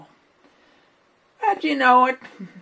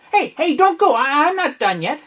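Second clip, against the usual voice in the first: calling out; 4 semitones higher, 4 dB louder than usual. Acted. Calling after people leaving.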